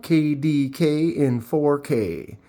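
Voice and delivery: K D K in four K spelled slowly, each letter separate; slow spelled-out handle. Shown as a demonstration. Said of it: "like a radio announcer?".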